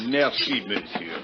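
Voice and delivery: a chuckle running into the word; laughing thanks. Acted. Inspector laughing over a free drink on the expense account.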